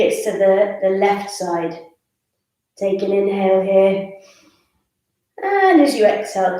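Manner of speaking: measured yoga cueing, paced to the breath; guided breathing. Real, not acted. Yoga teacher leads side stretches on the breath, guided breathing. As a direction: draw out each "and" into the exhale.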